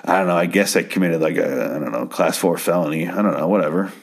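imitating a checked-out man's shrug; casual, indifferent retelling; nonchalant. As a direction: toss it off as if nothing matters. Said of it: "amazingly nonchalant about everything".

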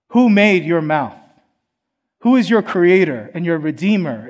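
God rebuking Moses. Retold or imitated. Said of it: "He says".

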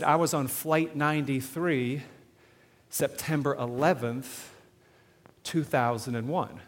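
slow, measured, with long pauses between phrases; deliberate dramatic spacing; weighty retold reveal. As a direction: quote it piece by piece, letting each part land. Retold passenger's grave reveal.

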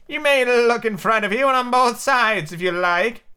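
high, slow, drawn-out sheep voice; bleating sheep. A narrator's reading. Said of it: "the sheep said".

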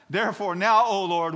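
very high, full-force shout; hammed-up desperate prayer, shouted; impassioned plea. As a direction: cry out to the Lord at the top of your voice. Repeats prayer at higher intensity.

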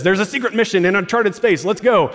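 high, loud action-figure announcement; toy voice box. Retold or imitated. Pastor imitating Buzz's button voice, high and loud. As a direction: boom it out like a toy's recorded catchphrase. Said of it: "pushes a button and it says".

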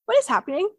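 high, loud, bewildered outburst with a laugh breaking in; shocked disbelief. Retold or imitated. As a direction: play the stunned newcomer back in normal life. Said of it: "there's a shock of".

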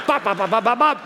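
bouncy bops through a laugh. Retold or imitated. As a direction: giggle out each bop. Imitating wife skipping on water.

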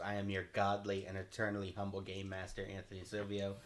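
host intro. Acted. Game master show intro.

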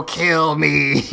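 drawn-out, lightly voiced pleading creature; comic little groan of a plea; mock robot plea. Newborn robot skeleton begging its makers, mock plea.

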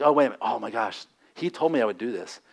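soft, low dawning regret; imitated murmur of someone remembering; hushed realization. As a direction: let it sink in quietly, acting it out. Voicing Peter's dawning realization.

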